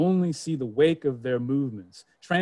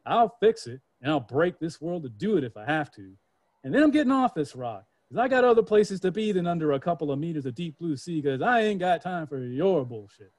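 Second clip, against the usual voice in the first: defiant humankind; 3 semitones higher than usual. Acted.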